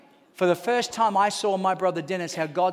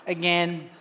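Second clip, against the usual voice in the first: low, dry echo of the word; deadpan repeat; 6 semitones lower, 4 dB quieter than usual. Retold or imitated. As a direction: drop it low for comic effect. Repeats brother's word, low, comic.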